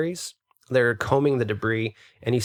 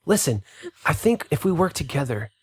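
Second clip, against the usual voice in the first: exasperated elf; 4 semitones higher than usual. Acted. Elf scolds noisy party.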